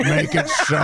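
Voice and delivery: shouted command. Acted. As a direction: bark it like a captain. Quoting a captain line, shouting.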